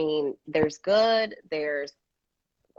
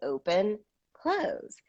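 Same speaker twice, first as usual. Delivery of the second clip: put-on sing-song demo to a baby; sing-song open close; 2 semitones higher, much slower than usual. Shown as a demonstration. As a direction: chant it like to a toddler.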